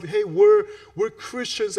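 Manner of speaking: normal talking voice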